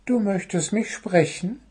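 high, innocent little bird voice; friendliest smile. A narrator's reading. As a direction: ask sweetly with a put-on smile. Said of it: "setzte sein freundlichstes Lächeln auf".

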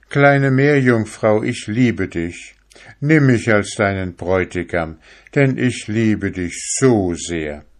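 a hint of a smitten young fisherman; young fisherman's plea. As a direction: confess love to the mermaid from the boat. Fisherman declares love.

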